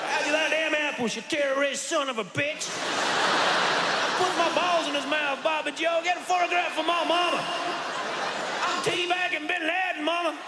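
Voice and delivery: put-on high, hollering good-ol'-boy yell; rowdy American soldier. Navy seal yelling to his buddy on the boat. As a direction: whoop it up like a drunk sailor at a party. Imagined navy seals partying on ship.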